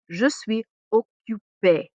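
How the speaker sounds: slow "Je suis occupé", every syllable clear; careful French. Shown as a demonstration. Teacher models I'm busy in French, slowly. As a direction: say it slowly for learners.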